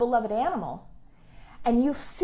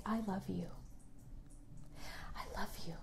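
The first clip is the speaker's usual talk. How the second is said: plain; 3 semitones lower, 18 dB quieter than usual. Shown as a demonstration. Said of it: "Say it to yourself".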